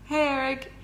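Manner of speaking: the name Eric said the English way; English accent. Real, not acted. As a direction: greet Eric with English pronunciation, not French. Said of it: "said Eric with an English accent".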